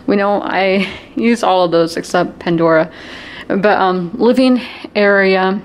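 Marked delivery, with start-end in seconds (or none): 4.1-5.6 winded from lifting suitcases; out of breath, panting lightly. Real, not acted. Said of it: "I'm out of breath".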